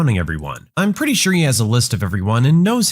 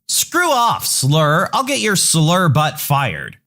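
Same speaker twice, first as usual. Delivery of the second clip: much higher, outraged mom threatening; angry entitled mother; 4 semitones higher, slower than usual. Acted. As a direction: pitch it up into indignant fury. Mom hurls insults at driver.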